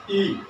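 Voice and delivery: slow, stretched ई held long. Shown as a demonstration. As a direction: draw the ई out to show its length. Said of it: "इसमें समय ज्यादा लगता है". (ई को लंबा खींचकर)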